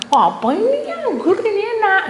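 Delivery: high, animated retold question; acted eager question. Acted exchange with small child. (tanya antusias, menirukan dengan nada tinggi)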